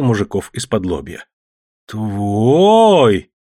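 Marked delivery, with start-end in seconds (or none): 1.9-3.3 astonished. A narrator's reading. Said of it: "всплеснул руками Барабанов".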